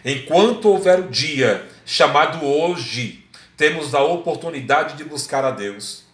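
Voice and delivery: slow, lightly voiced elderly radio preacher; frail old man. Old radio preacher urges listeners to seek God, lightly imitated frail voice. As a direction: draw the words out, hinting at weak old age. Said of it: "a voz já fraquinha".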